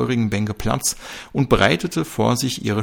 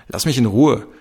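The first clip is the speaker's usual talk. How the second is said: a louder, curt snap; snapping angrily; 3 semitones higher, 6 dB louder than usual. Acted. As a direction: snap it at him and brush past. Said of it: "schnauzte Seeler ihn an".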